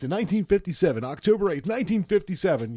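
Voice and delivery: put-on old-time radio announcer; oldie-timey radio voice. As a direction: announce it like a fifties DJ. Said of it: "my oldie-timey radio voice".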